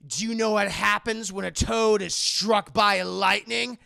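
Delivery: mock flat line. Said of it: "she says it's so monotone".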